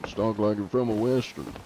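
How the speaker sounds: normal voice with Southern tang; Southern accent. Shown as a demonstration. Streamer shows how easy Southern is, Southern accent. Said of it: "just with a Southern tang to it".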